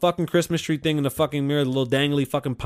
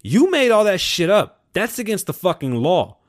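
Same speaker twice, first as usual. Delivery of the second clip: angry accusation; 5 semitones higher, 4 dB louder than usual. Retold or imitated. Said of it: "they go".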